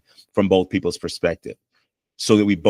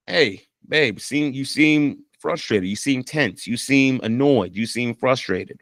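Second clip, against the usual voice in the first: gentle; 3 semitones higher, slower than usual. Shown as a demonstration. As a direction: say it kindly to your partner, slowly. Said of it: "Then say it like this".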